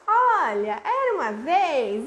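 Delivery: just launching into era uma vez, no build-up; rushed, careless reading. Shown as a demonstration. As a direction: read it off without engaging the child.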